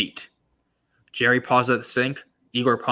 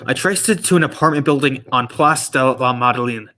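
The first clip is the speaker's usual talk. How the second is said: gps voice. Acted. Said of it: "you sound like a G P S".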